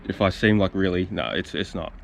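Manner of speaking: talking while chewing gum; words round a mouthful of chewy; mouth full. Real, not acted. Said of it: "Sorry if you get my chewy in my mouth".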